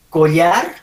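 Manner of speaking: "collar" with a palatal LY, rising as a question; LL pronunciation option. Shown as a demonstration. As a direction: offer collar as "co-lyar", questioning. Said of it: "A ver, ¿cómo dices?".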